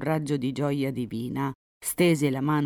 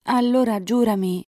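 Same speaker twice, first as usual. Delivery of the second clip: high, louder demand; insistent heroine; 8 semitones higher, 6 dB louder than usual. A narrator's reading. Elisa making Enrico swear, high insistent demand. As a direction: press for the promise with lifted voice. Girl demands an oath from lover.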